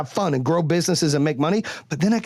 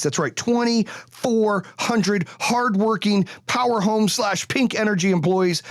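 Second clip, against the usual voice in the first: each word laid down slowly and weighted, a bit higher; slow emphatic stress; 5 semitones higher, slower than usual. Real, not acted. Owner stressing the layoffs to his audience, slow and weighted. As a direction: drive home the number, slow and heavy.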